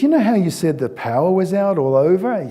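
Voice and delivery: put-on childlike question. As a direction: ask like a curious boy. Son asks innocently.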